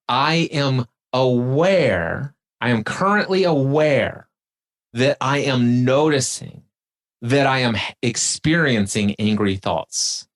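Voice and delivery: slowly, clause by clause with pauses; slow and deliberate. Shown as a demonstration. Host repeats the phrase slowly, step by step for the guest. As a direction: lay each step down slowly. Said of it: "Now watch this".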